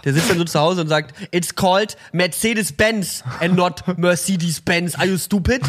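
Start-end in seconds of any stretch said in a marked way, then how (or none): 1.3-5.6 mock German accent. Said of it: "mit diesem super deutschen Akzent".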